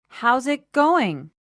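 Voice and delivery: slow demo. Shown as a demonstration. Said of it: "let's listen again to that phrase".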